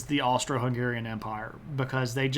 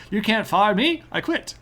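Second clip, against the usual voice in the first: mock defiance; 6 semitones higher, 4 dB louder than usual. Jokey quote in chat.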